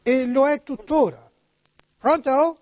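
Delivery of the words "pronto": put-on Italian spoken with an American accent; high-pitched American notary on the phone. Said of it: "come parla Niculo? ... oggi americani".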